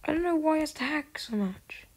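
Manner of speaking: exasperated whisper. Real, not acted. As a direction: whisper it, fed up. Muttering about a hacker.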